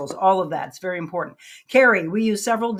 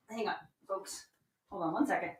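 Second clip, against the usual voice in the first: away from the mic; 14 dB quieter than usual. Real, not acted.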